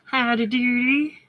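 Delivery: drawn-out American howdy doody; American accent. Retold or imitated. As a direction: say howdy doody slowly with a rising end. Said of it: "Don't you love when Di does an American accent".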